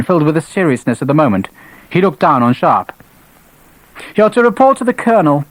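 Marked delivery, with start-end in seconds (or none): 4.1-5.4 stern order. A narrator's reading. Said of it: "His features were stern".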